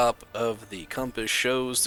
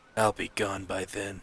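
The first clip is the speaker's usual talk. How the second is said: lower tough guy voice; 3 semitones lower, 3 dB quieter than usual. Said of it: "Gotta have tough guy voice".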